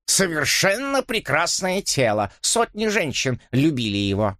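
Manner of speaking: lightly voiced vain old Dipps; vain old man. (тщеславный старик, слегка озвучен)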